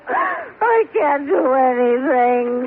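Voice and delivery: slow tearful wail; crying. Acted. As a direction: let it fall apart into tears. Wife breaks down in self-pity.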